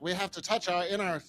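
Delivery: mid-Atlantic accent, mock spiritual sermon; Marianne Williamson impression. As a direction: lay on the old-movie mid-Atlantic accent, preaching the inner self. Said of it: "I might do an impression".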